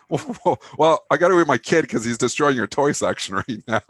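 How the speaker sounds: chuckling through the words; laughing. Retold or imitated. Laughing while retelling being escorted from the store. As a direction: laugh while you get the line out.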